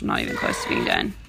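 fast exasperated whisper. Real, not acted. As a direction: whisper it to yourself in dismay. Frustrated aside while reading.

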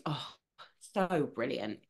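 normal talking voice

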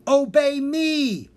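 slow, high, loud villain command; hammed-up evil wizard command; fuming villain. A narrator's reading. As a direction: demand obedience in a rage. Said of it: "the wizard fumed".

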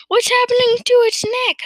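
very high, loud outburst; alarmed question. A narrator's reading. Farmer's wife seeing the neck stretch, exclaiming in alarm. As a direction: shriek the question in astonishment.

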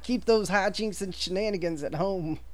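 put-on old man voice. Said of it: "He's like".

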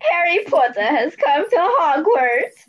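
a light smug Malfoy announcement; Malfoy announcing. Acted. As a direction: friend takes over Malfoy's line, lightly smug. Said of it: "that's my part".

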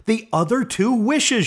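ordinary delivery

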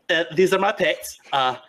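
Nyctis introducing pets. Acted. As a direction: proudly show off the pets, half laughing. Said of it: "He's like".

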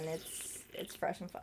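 playful whisper. Real, not acted. Co-host showing off a new water bottle, playful whisper. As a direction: drop to a hushed whisper. Playfully repeats own phrase hushed.

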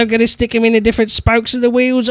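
high, broad Cockney impression of a viewer; hammed-up Cockney geezer voice; mock Cockney.

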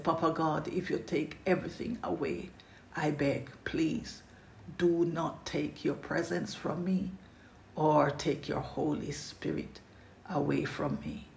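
soft, hushed begging, almost breathless on please; quiet pleading prayer. Retold or imitated. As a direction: plead softly with God. David begging God in prayer.

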